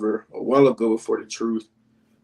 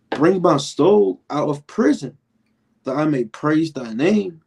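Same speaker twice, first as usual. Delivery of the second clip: slow, higher solemn reading of the verse; scripture reading; 3 semitones higher, slower than usual. Acted. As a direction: read it out like holy scripture.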